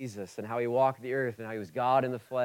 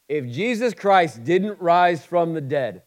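slow, loud and higher for emphasis; preacher drives home the point slowly; emphatic slow line; 5 semitones higher, 10 dB louder, slower than usual. Acted. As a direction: lean hard on each word. Preacher hammering key point.

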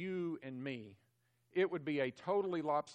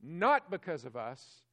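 loud, insistent preaching; it's not us, it's God's own mercy, forcefully; emphatic; 3 semitones higher, 9 dB louder than usual. Acted. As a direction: drive it home with force. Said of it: "The text is emphatic".

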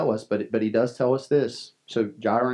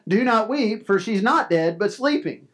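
gentle command; 6 semitones higher than usual. Acted. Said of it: "he says".

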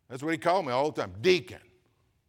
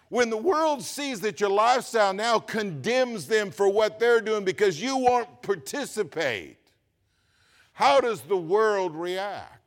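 preaching at full force; 5 semitones higher, 6 dB louder than usual. Acted. Preacher building to a climax.

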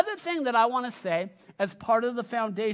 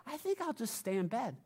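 sleepy reluctance; 9 dB quieter than usual. Retold or imitated. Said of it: "it's like".

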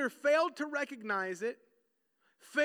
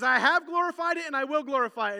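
voice of God; 3 semitones higher, 8 dB louder than usual. Acted. Voicing God from heaven.

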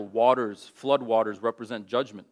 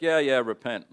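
reluctant preaching; 4 dB louder than usual. Retold or imitated. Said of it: "a real reluctant message".

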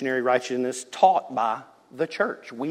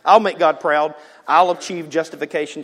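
loud, higher self-assured boast; proud boast; 5 semitones higher, 12 dB louder than usual. Retold or imitated. The self-reliant reader vowing to make God proud, loud boast. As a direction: brag you'll earn it yourself. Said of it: "reads Exodus and goes".

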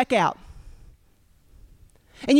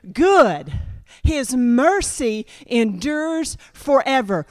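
declared scripture; slower than usual. Retold or imitated. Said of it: "And I say".

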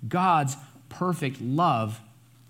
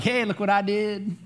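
mock arrogance; 6 semitones higher than usual. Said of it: "It's not that type of arrogance".

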